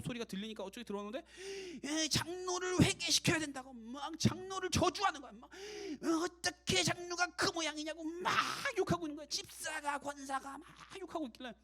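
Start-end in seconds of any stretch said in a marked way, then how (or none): 1.8-11.5 high, strained imitation of heated prayer; mock impassioned prayer, high-pitched throughout; fervent cursing prayer. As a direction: wail out the curses as if praying fervently. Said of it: "어떤 분이 이렇게 뜨겁게 기도하나".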